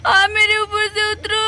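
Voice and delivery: slow, mock sobbing child; acted crying. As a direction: whimper for mummy, slowly. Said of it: "बेचारी स्वीटी जोर जोर से रोने लगती है". (रोती हुई बच्ची, धीरे धीरे)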